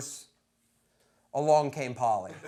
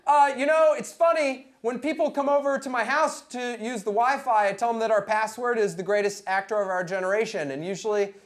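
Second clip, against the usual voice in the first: 1 nervous fan babble; 4 semitones higher than usual. Retold or imitated. Fan rambling to his idol.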